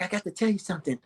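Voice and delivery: soft, hesitant repeat; shyly confessing to her boyfriend; weird and shy. Retold or imitated. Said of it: "She was weird and shy".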